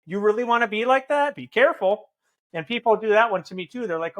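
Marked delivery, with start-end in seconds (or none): 0.1-2.1 mildly imitated jerk lecture; pointed mock berating, lightly obnoxious; dickhead way. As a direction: needle them like a scolding dickhead. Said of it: "say in a dickhead way".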